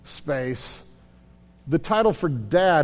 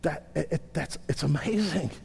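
hushed awe; 3 semitones lower, 10 dB quieter than usual. Real, not acted. Overwhelmed by the message.

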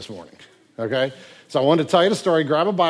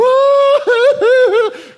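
loud, very high comic wail; mock bawling; 12 dB louder than usual. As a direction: burst into an exaggerated sustained howl of weeping. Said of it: "this dude starts crying over him".

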